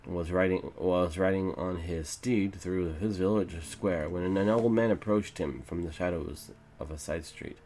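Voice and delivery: measured fantasy storybook narration; story narration. A narrator's reading. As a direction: read it out like an epic legend.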